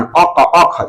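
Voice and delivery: "अ" sounded from the root of the tongue; short demonstration of "अ" made at the back of the mouth; tongue-root sound demo. Shown as a demonstration. Teacher showing where the tongue-root sound is made, demonstrative. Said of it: "ऐसे उच्चारण करते हैं".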